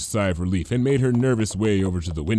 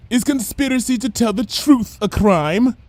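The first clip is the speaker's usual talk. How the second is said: much higher, sly and lofty; knowing Lyra; 13 semitones higher, 4 dB louder than usual. A narrator's reading. Lyra answering Bon Bon, knowingly. Lyra's voiced lines.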